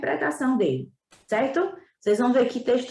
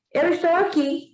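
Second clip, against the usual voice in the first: higher fox voice from under the tree; 6 semitones higher than usual. Acted. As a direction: call up lightly as the fox. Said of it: "disse a voz debaixo da macieira". (voz da raposa, um pouco mais aguda)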